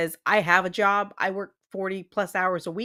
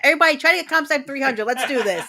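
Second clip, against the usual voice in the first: excited; 4 semitones higher, 4 dB louder, faster than usual. Real, not acted. Rallying the chat excitedly.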